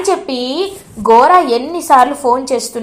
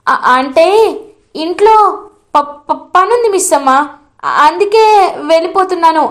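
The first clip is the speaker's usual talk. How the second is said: stumbling over the first sounds, p- p-; flustered stammering; 3 semitones higher than usual. Acted. Arundhati stammering an excuse to Bhagi, flustered. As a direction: caught out, making a lame excuse. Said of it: "తడబడిపోతూ ఉంటుంది".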